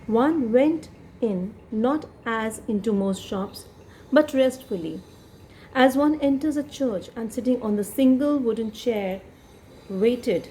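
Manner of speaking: slow, careful reading aloud of the text; story reading. Shown as a demonstration. Teacher reading the story to students. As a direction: read the passage slowly to the class.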